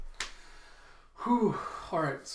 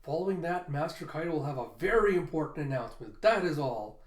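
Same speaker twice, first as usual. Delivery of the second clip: announcer voice; 3 semitones higher, 3 dB louder than usual. Acted. Bao Huang briefing Kaido on the festival schedule, lightly announcer-like. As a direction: rattle off the itinerary like a dutiful herald.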